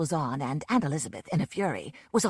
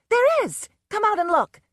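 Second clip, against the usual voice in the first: shrill insistence; 8 dB louder than usual. A narrator's reading. Susan shrieking back.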